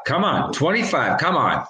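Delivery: normal talking voice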